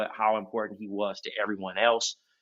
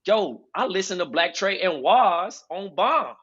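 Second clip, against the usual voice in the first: imitating a fan; 8 semitones higher than usual. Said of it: "So Quincy Chad's like".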